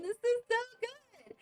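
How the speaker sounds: high, slow, drawn-out gushing; gushing delight. Retold or imitated. Two friends gushing over their first apple cider, high and drawn out. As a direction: swoon over the drink. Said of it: "two Hispanic girls going".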